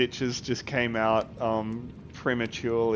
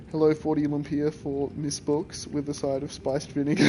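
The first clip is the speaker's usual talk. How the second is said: lightly voiced customer placing an order; mock order call. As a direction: play a caller ordering takeout. Mock phone order for food.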